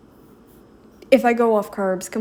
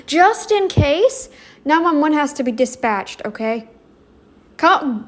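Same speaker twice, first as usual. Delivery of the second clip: mock commands; 4 semitones higher than usual. Mock orders to the cameraman.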